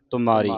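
ਤੁਮਾਰੀ said with weight; teacher's demo of a heavy ਤੁਮਾਰੀ; heavy pronunciation. Shown as a demonstration. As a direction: give ਤੁਮਾਰੀ a heavy sound. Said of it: "ਤੁਮਾਰੀ ਭਾਰਾ ਬੋਲਣਾ ਇਹਨੂੰ".

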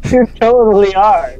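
high, loud playful accusation; teasing accusation. Real, not acted. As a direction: call them out with a grin.

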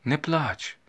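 high, cooing little voice; talking to a doll. A narrator's reading. Young lady comforting the mother, as if to a doll. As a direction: soothe as a child soothes a doll. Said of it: "таким голосом, як діти розмовляють з ляльками".

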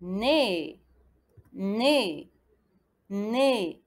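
"Né" low, with a long é; syllable demonstration. Shown as a demonstration. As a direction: model "Né" as one drawn-out syllable.

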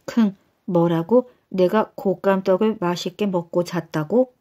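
snort, then ask in disbelief; shocked husband. Acted. Nasal husband shocked at news.

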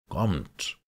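rising shrill call. A narrator's reading. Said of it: "Seine Stimme stieg schrill an".

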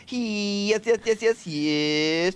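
high, building mock moan of yeses; excited porn moan. Friend shows the podcast crew a porn moan, high and hammy. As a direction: ham up a porn star getting carried away. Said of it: "They go".

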